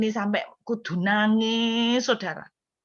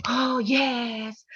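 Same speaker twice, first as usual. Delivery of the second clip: relieved cheer. Retold or imitated. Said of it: "semua teman-teman langsung".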